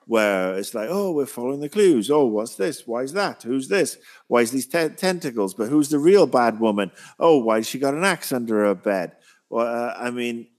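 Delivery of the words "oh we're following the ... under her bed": lightly higher, hammed-up sleuthing; mock detective. Critic sending up the clue-hunting scenes, lightly hammed. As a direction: play a corny boy detective. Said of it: "a bad Hardy Boys episode".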